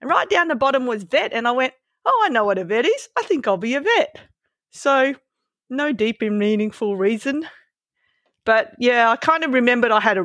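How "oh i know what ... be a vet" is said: retold teenage realisation. Acts out her teenage decision.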